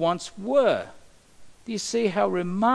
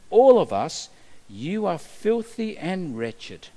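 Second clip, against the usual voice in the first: voice of God; 2 semitones lower than usual. Acted. Preacher voicing God to people.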